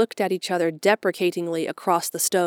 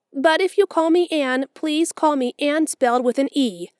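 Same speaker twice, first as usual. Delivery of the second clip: put-on a romantic child longing for a grand name; dreamy orphan girl; 6 semitones higher than usual. A narrator's reading. Anne's voice.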